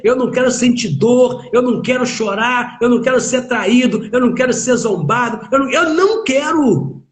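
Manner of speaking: impassioned high-pitched preaching; pleading preacher. Acted. Listing fears people pray against.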